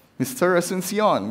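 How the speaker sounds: put-on accent resembling Spanish. Retelling a phone call from a man: weird Spanish-like accent. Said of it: "with a very weird Spanish-like accent".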